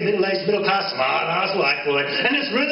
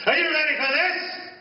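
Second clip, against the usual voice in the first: excited high call; 9 semitones higher than usual. Acted. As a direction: rouse the crowd. Rising to the wild outburst.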